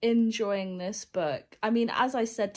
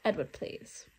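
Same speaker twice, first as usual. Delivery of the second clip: exasperated whisper; 5 dB quieter than usual. Retold or imitated.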